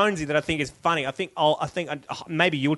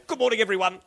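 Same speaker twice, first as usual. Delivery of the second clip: Alan Jones voice; 3 semitones higher, faster than usual. Shown as a demonstration. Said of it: "Alan Jones, is saying".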